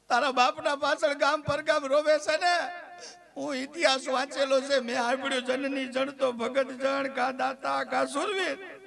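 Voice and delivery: fake-sob the words to the son; mock crying voice. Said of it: "રોવાની action કરું, સાંભળજો". (નાટકીય ખોટું રડતાં બોલવું)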